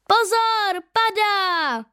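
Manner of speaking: sudden high, loud warning; alarmed cry. A narrator's reading. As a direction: cry out in fright. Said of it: "vykřikne Linda".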